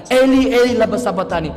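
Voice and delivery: teriakan menirukan. Retold or imitated. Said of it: "dia berteriak-teriak".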